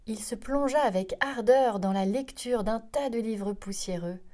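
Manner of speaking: ordinary delivery, nothing marked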